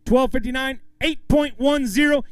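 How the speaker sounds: high, loud weight call; big announcement. Real, not acted. Emcee revealing the co-angler's weight to the crowd, big announcement. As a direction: build to the number and stretch it out.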